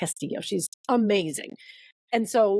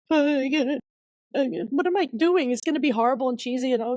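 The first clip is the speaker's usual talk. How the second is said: higher-pitched mock anguish; retold self-doubt; 5 semitones higher than usual. Author doubting the how-to book, mildly anguished. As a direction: act out a small crisis, speeding up. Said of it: "little dark night of the soul".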